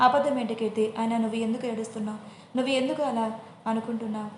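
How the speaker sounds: usual speaking voice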